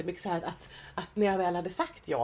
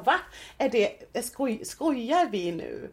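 higher-pitched, drawn-out incredulous question; retold disbelief; 4 semitones higher, much slower than usual. Interviewee retelling a reaction to hearsay, incredulous. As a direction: relive the disbelief, stretching the words.

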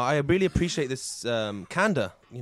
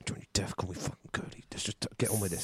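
tearful hiss; 7 semitones lower, 11 dB quieter than usual. Acted. Hurt outburst while crying on date.

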